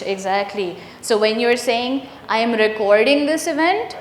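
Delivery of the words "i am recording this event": recording stressed on the second syllable, re-CORD-ing; verb stress. Shown as a demonstration. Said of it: "It changes the part of speech".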